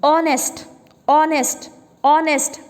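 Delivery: ऑनेस्ट repeated, starting straight on the o sound; ऑनेस्ट opened on a clear o vowel; silent h. Shown as a demonstration. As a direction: say ऑनेस्ट three times with no h. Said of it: "देखो ध्यान से".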